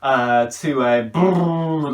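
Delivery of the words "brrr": slow buzzing lip trill like a horse. Shown as a demonstration. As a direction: flutter the lips, slow horse brrr. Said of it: "like the horse".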